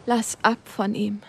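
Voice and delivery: slow, forced out with the last breath; strained, last strength. Acted. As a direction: squeeze "Lass ab von ihm" out, dying. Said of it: "presste er mit letzten Kräften aus sich heraus".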